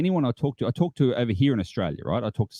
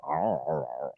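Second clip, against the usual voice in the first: put-on low, slurred drunken "arrr" noise; drunken groan imitation; 11 semitones lower, 7 dB quieter than usual. Imagining drunk geocachers walking Seattle streets, mock drunken groan. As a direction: groan like a staggering drunk, played for laughs.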